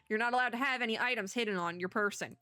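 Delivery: attempted Southern accent for a prison officer; put-on Texas Southern accent. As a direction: recite the rule as a Southern officer. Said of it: "Trying to do the accent in real time".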